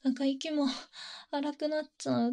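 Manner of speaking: mock flustered heroine, catching her breath; panting heroine. Heroine noticing her breathing speed up, mildly flustered. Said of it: "ってなって".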